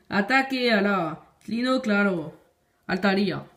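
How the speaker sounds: slow, put-on Spanish accent. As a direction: read it slowly with a mock Spanish accent. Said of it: "Mon accent espagnol". (accent espagnol imité)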